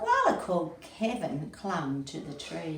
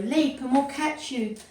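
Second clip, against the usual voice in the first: high, coaxing call from below; raised-pitch encouraging call; crowd calling; 6 semitones higher than usual. A narrator's reading. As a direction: urge someone to jump. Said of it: "the crowd called that had gathered below".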